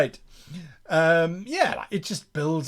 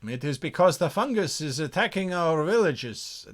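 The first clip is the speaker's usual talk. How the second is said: attempted Persian accent; 3 semitones higher than usual. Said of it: "I don't even know what accent that is".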